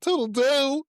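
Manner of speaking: high, drawn-out mock toodle-doo; loud wrong toodle-doo. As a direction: belt out the botched goodbye. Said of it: "Loud and wrong".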